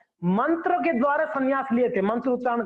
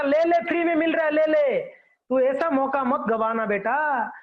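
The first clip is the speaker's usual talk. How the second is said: lightly voiced temptation, pitched up; coaxing tongue; 3 semitones higher than usual. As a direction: coax as the baba's tempted tongue, slowing at the end. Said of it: "उसका जीवा बोल रहा था". (हल्के अभिनय में ललचाती जीभ की आवाज़)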